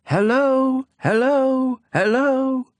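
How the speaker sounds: high ringing echo fading back. Acted. The echo answers the prince, high and hollow. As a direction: bounce it back like a mountain echo. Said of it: "the echo answered".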